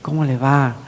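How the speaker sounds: softened, doting greeting to mother; tender pet-name talk; affectionate. Shown as a demonstration. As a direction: gently sweet-talk your mother. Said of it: "Yo así le digo a mi mamá".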